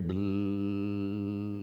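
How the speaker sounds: propeller noise. Retold or imitated. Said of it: "where you hear".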